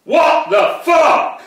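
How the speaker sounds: slow, loud, high disbelieving yell; a slow furious shout of disbelief; outraged shout. Real, not acted. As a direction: hurl it out in outrage. Outraged at child safeguarding company.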